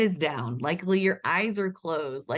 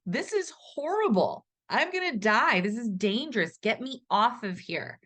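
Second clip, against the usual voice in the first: panicky rider; 5 semitones higher than usual. Retold or imitated. Voicing the scared rider again.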